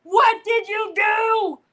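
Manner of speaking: loud, high, drawn-out holler; hollered scolding across the house; retold yell. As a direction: call out the name in exasperation. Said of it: "when I was like".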